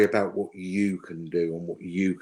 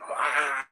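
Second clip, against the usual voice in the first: drawn-out, higher mock cry of frustration; mock frustrated scream; 6 semitones higher than usual. Psychic voicing the client's frustration, a mild mock scream. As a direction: imitate a scream without raising the volume. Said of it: "screaming at the top of your voice".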